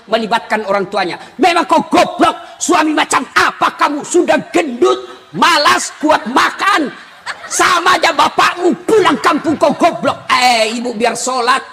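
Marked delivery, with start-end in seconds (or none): 1.4-10.3 mock angry scolding, a touch of shouting; hammed-up rant at a lazy husband; insulting husband. Wife berating her husband for being fat and lazy, mock angry. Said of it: "tidak boleh maki-maki".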